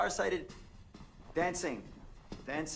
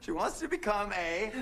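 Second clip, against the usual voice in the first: words bubbling with laughter; laughing. Acted. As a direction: guess spoken through fading laughter. Guesser still laughing.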